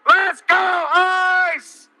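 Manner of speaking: frat bro. Acted. Mocking cheers through a megaphone.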